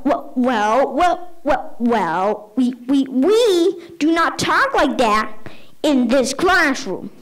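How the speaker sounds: halting, stuttered false starts, then slowed reprimand; flustered stammering. Retold or imitated. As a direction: play a teacher scrambling for composure. Flustered teacher stammering at the insult.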